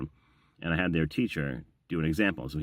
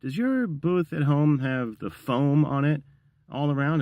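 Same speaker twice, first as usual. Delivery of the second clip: higher-pitched, slower imitation of a child asking; curious kid; 9 semitones higher, 4 dB louder, slower than usual. Kid asking the visiting narrator about his home booth, higher-pitched imitation. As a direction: voice an eighth grader's earnest question. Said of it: "one of the kids said".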